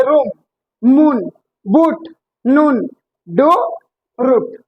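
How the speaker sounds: "रूम, मून, बूट, नून, डू, रूट" each with a long ऊ; long oo vowel. Shown as a demonstration. Teacher demonstrating double O as big ऊ, long oo vowel. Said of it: "बड़ी ऊ की मात्रा".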